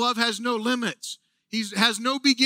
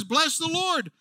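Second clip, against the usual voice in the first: fired-up call; 4 semitones higher, slower than usual. Retold or imitated. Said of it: "He says".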